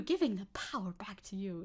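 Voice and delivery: breathy mock whisper of ad slogan; mocking the buzzwords. Mocking the league ad's slogan to chat in a whisper. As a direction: sneer it as empty marketing talk. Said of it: "The fucking buzzwords too".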